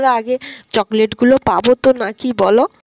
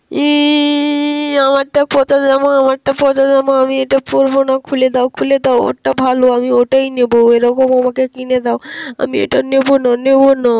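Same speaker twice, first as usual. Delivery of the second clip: whiny tantrum; 3 semitones higher than usual. Acted. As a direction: sulk and demand like a spoilt child. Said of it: "তুই যাতে কান্নাকাটি না করিস". (ঘ্যানঘ্যানে কান্নার আবদার)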